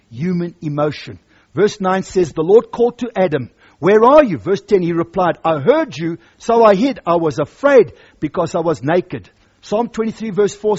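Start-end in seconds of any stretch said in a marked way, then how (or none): 1.5-2.3 reading the verses out loud and strong; booming scripture read. Acted. Preacher reading scripture aloud. 2.3-4.4 loud call of Where are you; loud searching call. Acted. God calling Adam. 4.4-9.3 reading the verses out loud and strong; booming scripture read. Acted. Preacher reading scripture aloud.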